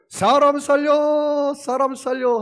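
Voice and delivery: loud, high, long drawn-out yell; acted cry for help. Sinking man to fourth passerby, shouting for help. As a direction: shout it out for rescue at full stretch.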